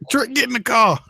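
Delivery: high squeaky mock holler; mock call. Imitating a young fan calling out, high mock holler.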